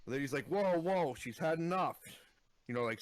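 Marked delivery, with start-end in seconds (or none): 0.5-2.0 alarmed calming. Retold or imitated. Acting out a character calming someone.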